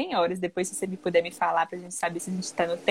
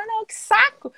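put-on bored child; 13 semitones higher, 4 dB louder than usual. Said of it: "O menino vai falar".

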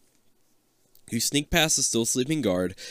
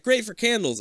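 Martha Stewart impression; 10 semitones higher than usual. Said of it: "Martha Stewart".

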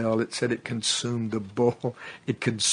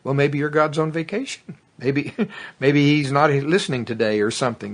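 mocking taunt; 4 semitones higher, 4 dB louder than usual. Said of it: "Elijah started making fun of them".

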